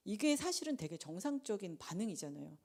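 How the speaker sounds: normal talking voice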